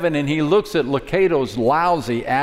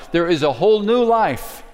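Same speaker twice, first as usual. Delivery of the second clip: rising proclamation; 5 semitones higher than usual. Real, not acted. Preacher building to climax.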